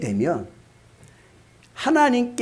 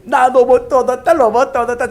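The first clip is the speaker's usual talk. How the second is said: put-on gleeful child; 8 semitones higher, 7 dB louder than usual. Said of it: "좋아가지고".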